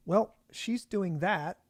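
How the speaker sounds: slow, flat-faced understatement; stone-faced deadpan. Retold or imitated. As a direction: say it slowly like nothing surprises you. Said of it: "this stone-faced recognition".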